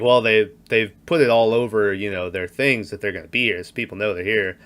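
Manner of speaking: lightly voiced creepy old man, low; Patrick Stewart voice. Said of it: "in this Patrick Stewart voice".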